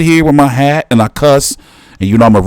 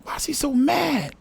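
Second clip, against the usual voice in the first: much softer, mostly to himself; muttered repeat; 12 semitones higher, 14 dB quieter than usual. Real, not acted. Watching the clip, soft muttered disbelief. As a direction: mumble the same question again under your breath. Repeats the question under his breath.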